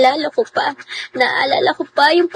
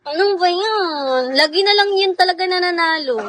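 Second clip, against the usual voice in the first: laughing complaint; 5 semitones higher than usual. Real, not acted. Losing again, frustrated.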